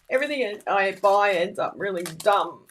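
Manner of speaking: ordinary talk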